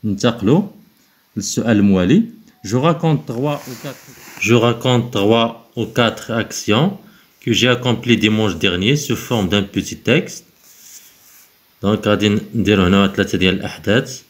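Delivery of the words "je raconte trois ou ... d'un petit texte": slow instruction read. Acted. Teacher reading the exercise instruction to pupils, slow and clear. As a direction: read the task aloud slowly for the class.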